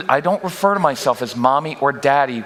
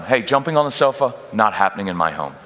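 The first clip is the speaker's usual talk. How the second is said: calm, level statement of fact; even matter-of-fact tone; 4 semitones lower than usual. Shown as a demonstration. Parent stopping sofa jumping, calm and even. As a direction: say it flat-out calm, no emotion. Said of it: "even matter-of-fact tone".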